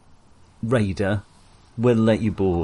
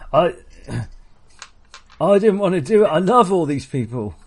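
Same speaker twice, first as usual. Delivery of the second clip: stammering plea; 6 semitones higher than usual. Acted. Raider pleading, stammering.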